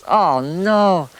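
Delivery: a jolt of dismay; realising the bomb is his own bag; alarmed. Retold or imitated. Sees soldiers around his bag.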